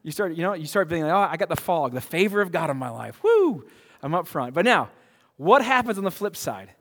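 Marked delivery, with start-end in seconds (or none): 1.1-4.5 mock Pentecostal excitement. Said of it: "you start getting all Pentecostal".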